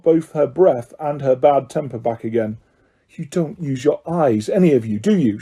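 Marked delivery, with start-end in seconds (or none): 3.1-5.4 snapped. Acted. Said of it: "she snapped".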